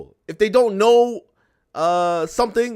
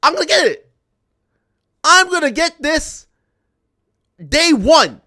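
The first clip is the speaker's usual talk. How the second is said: mock eager buyer; 3 semitones higher, 3 dB louder than usual. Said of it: "who in their right mind is gonna be like".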